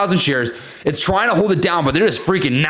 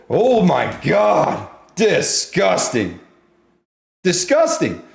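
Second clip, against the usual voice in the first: awed drawl; much slower than usual. Real, not acted. Amazed at price move.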